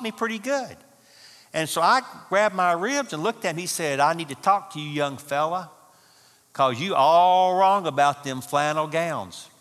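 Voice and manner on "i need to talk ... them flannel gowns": put-on old codger. Old man jabbing the speaker, lightly voiced teasing codger. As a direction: lightly voice the mischievous old fella. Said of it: "this eighty-five-year-old codger".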